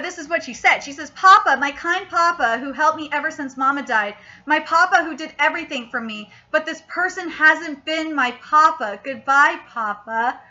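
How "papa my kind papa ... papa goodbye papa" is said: lower, understated sad reading; subdued, retold farewell to Papa; mildly sad farewell. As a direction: read a daughter's goodbye with gentle sadness. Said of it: "is so sad in the manga".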